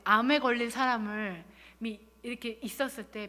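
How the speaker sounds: usual speaking voice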